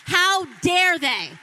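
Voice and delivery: slow, loud, high how dare they; furious shout. Real, not acted. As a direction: shout it out in outrage. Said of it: "I was angry".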